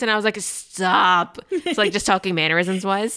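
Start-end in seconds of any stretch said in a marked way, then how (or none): 0.4-1.4 drawn-out, embarrassed stop; playfully put-upon retort; exasperated protest. Retold or imitated. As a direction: protest with a long, stretched word. Annoyed retort to campers' comparison.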